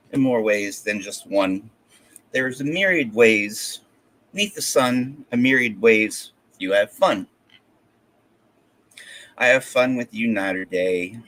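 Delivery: rhyming verse read in measured phrases; poem recitation. Acted. Poet reading verse written for an ex-girlfriend, recited. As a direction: recite it line by line, pausing between phrases.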